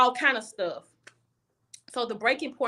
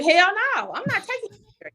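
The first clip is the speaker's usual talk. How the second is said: sharp, loud and much higher, cutting her off; friend refusing loudly; 10 semitones higher, 4 dB louder than usual. Retold or imitated. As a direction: bark the refusal like an outraged best friend. Friend refusing, retold heated quote.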